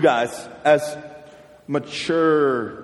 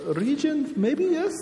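a mock Russian accent, slow and soft; a playful fake Russian accent; 5 semitones higher, 4 dB quieter, slower than usual. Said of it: "I can even talk".

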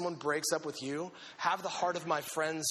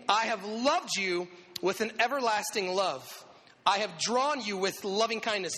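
scripture reading; 3 semitones higher than usual. Acted. Reading the verse.

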